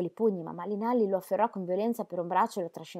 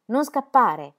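a huge shout, much louder and higher; thunderous shout; 4 semitones higher, 12 dB louder, much slower than usual. Acted. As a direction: roar it like thunder after a running child. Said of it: "con voce di tuono gridò". (urlo tonante)

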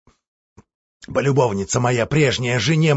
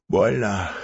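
indifferent; 4 semitones lower than usual. Acted. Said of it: "равнодушно сказал Григорий".

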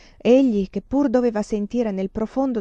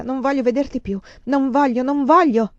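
insistent refusal building louder and higher; rifiuto ostinato; 5 semitones higher, 5 dB louder than usual. A narrator's reading. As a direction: dig in harder with each phrase. Donna si divincola, rifiuta. (rifiuto ostinato, in crescendo)

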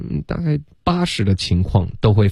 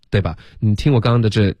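ordinary talk, nothing marked

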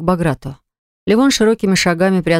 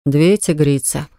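gloomy; 3 semitones lower, slower than usual. Acted. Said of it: "хмуро подметил он про себя".

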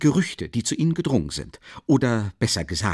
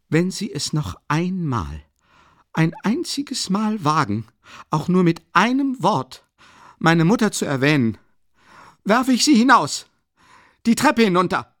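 furious threat; 9 semitones higher, 5 dB louder than usual. Acted. Raskolnikow droht Luschin, steigert sich zum Brüllen. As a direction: build from menace to a yell.

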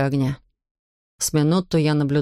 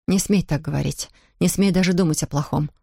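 heated exclamation; 2 semitones higher than usual. Acted. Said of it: "с жаром воскликнула она".

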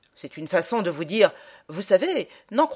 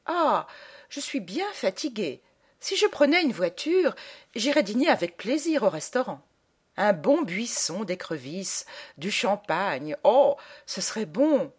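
lady musing aloud. Acted. Lady at the exhibition talking to herself, lightly voiced musing. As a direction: think aloud as a lady wishing for dinner. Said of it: "Elle parlait toute seule".

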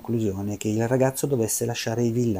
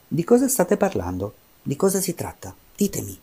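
curious; 5 semitones higher than usual. Acted. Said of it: "era veramente incuriosito".

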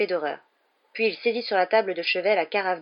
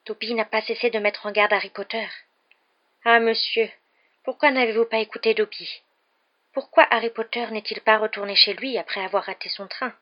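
higher-pitched pleading elf voice; reproachful little house-elf, pitched up; distressed house-elf; 4 semitones higher, 4 dB louder than usual. A narrator's reading. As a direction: plead as a servile, anxious elf.

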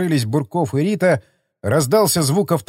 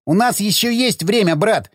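high, manic laughing through the words; laughing hysterically; 6 semitones higher than usual. Acted. Zagorsky laughing madly at his brother. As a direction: cackle it out like a man gone mad. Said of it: "ещё сильнее расхохотался он".

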